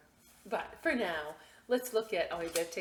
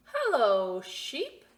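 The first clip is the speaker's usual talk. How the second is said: cheerful call; 6 semitones higher, 10 dB louder, much slower than usual. Acted. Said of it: "said Duck".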